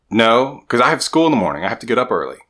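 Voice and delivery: a son dodging chores for his dad; whiny kid son. Retold or imitated. Son answering dad, retold.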